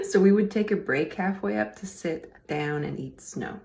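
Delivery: words through a laugh. Real, not acted. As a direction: still laughing as you read. Laughs mid poem.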